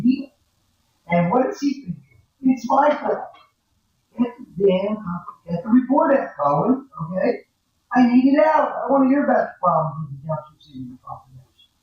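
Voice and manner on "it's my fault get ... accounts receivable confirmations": hammed-up demand to rush the report; pushy client. Accountant to students, voicing an impatient client's thoughts.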